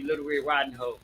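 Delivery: "Hood" turned cheekily into "hoe"; joke mispronunciation. Real, not acted. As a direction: say "Hood" as "hoe", dropping the final d. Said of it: "I didn't say hood".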